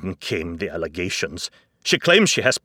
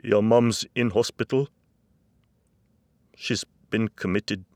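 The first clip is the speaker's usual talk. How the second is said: distressed news-breaking; 5 semitones higher, 9 dB louder than usual. Acted. Dad breaks grave news to son.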